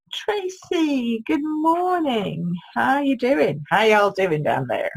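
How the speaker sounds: high, drawn-out greeting in a bad Southern US accent; hammed-up Southern US drawl for a viewer; a rubbish Southern US accent, played for laughs; mock Southern US accent. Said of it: "my really rubbish, uh, try at, at an accent".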